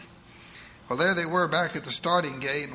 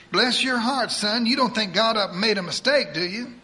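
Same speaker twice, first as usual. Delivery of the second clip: put-on higher, fast voice of a bossy old churchwoman; eager church lady; 6 semitones higher, 5 dB louder than usual. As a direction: rattle it off like a pushy saint. Edith comforts doctor.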